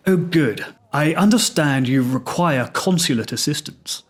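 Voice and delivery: lightly put-on British official; a hint of formal BBC English; terribly British accent. Embassy official replying to the prisoner, terribly British. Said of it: "So the voice said".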